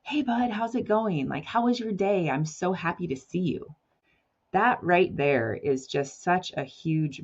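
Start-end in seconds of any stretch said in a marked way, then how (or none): 0.0-3.7 put-on higher, happy hello to your teen; light up as they walk in; excited greeting. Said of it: "you being excited to see them".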